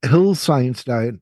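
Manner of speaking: nose clipped shut; pinching nose. Real, not acted. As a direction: talk with a clip on your nose. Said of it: "why do I suddenly sound different".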